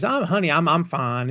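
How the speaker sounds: lightly imitated Southern mom, high start settling down; a hint of sweet-talking Southern grandma; old Southern grandma. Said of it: "she does the old Southern grandma thing".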